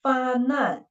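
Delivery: "Fa nan" with n opening "nan"; second syllable starts with n. Shown as a demonstration. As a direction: divide "Fa nan" after "Fa". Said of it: "should beginning with the initial".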